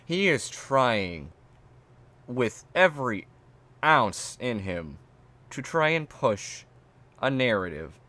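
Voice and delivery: slow, spaced out phrase by phrase; long pauses between deliberate chunks; exasperated, emphatic. Real, not acted. Streamer complaining about the reviewer, slow and exasperated.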